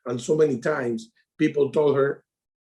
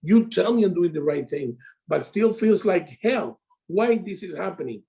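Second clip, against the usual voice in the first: higher, pleading imitation of himself in despair; mock crying to coach; 3 semitones higher than usual. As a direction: replay your own desperate call, pitched up, half-hammed. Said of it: "call Steven crying like".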